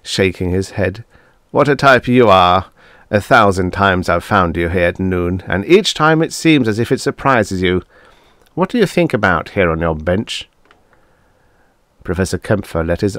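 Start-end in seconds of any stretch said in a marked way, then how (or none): 1.5-10.5 lightly voiced jovial colleague, a bit louder; hearty Tanzler. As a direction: tease him like an old friend, heartily.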